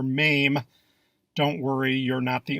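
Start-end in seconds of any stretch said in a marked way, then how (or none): 0.0-0.6 mame with a long A, "maym"; mistaken pronunciation. Shown as a demonstration. Narrator quoting a common mistake, mame pronounced "maym". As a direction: say mame to rhyme with name. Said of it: "found yourself pronouncing this word as".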